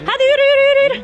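yüksek, ısrarlı acele ettirme; çocukları azarlayarak yürüt; sert emir. Real, not acted. Anne çocukları eve yürütüyor. (azarlayan anne, yüksek sesle)

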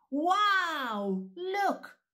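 high loud amazed Wow. Shown as a demonstration. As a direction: gasp in wonder at the star. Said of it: "Can we say that?".

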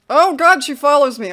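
loud, alarmed cry; sudden fright as she gives chase; panicked outburst. Real, not acted. Player spotting the ghost follow her, loud panic.

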